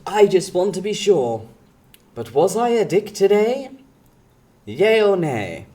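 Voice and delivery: questioning poster voice; mock Reddit poster. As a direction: read it like a nervous poster asking. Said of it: "asking the question of".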